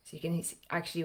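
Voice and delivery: normal talking voice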